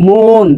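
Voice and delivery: মন drawn out as "mo-on"; hidden vowel shown. Shown as a demonstration. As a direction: stretch the o inside মন. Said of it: "কেমনে আছে?".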